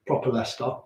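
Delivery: "Leicester" with an open "-ah" ending; a proper local Leicester accent. Shown as a demonstration. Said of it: "It's a bit of a tough one to get".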